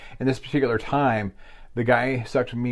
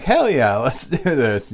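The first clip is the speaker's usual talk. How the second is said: eager; 3 semitones higher, 4 dB louder, slower than usual. Retold or imitated. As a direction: cheer it like you can't wait. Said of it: "I'm like".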